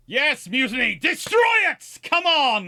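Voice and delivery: over-the-top slow roar, "on" dragged out. Shouting orders at the fleet in play: over-the-top Gothic commander tirade. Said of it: "I'm probably getting a little bit too overboard into the Gothic theme".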